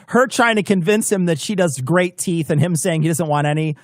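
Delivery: normal talking voice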